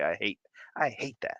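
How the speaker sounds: put-on whispered so the kids won't hear; secretive whisper; hushed aside. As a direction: say it under your breath.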